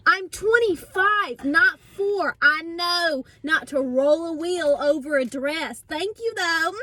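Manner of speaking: indignant retort. Retold or imitated. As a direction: spell it out like talking to a child. Indignant inner reply to clerk.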